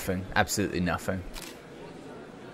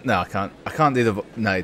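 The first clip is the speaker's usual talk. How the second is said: ordinary talk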